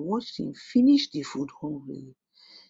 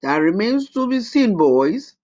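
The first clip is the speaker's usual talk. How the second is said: high, loud taunting witch; menacing witch; 5 semitones higher, 5 dB louder than usual. A narrator's reading. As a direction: toy with them cruelly. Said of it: "said the old witch".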